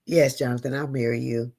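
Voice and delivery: low, tender acceptance. Retold or imitated. Woman retelling her yes to Jonathan, tender.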